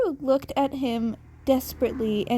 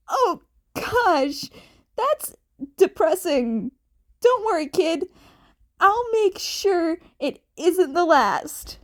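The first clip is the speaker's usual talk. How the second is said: higher, louder playful promise; Yamada's voice; 5 semitones higher, 3 dB louder than usual. A narrator's reading. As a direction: tease then reassure.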